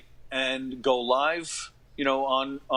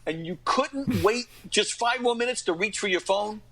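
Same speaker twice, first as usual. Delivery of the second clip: raised, higher, slowed mock yell, laughing through it; mock yelling at heckler; 7 semitones higher than usual. Comedian retelling how he yelled at a heckler, mock yell. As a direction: playfully bawl out the guy on his phone. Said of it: "I start yelling at him".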